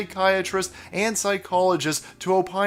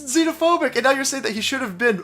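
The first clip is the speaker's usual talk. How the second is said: high, loud, indignant yelling; angry shouting; 10 semitones higher, 4 dB louder than usual. Real, not acted. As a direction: shout him down, outraged. Angry rant at Biden.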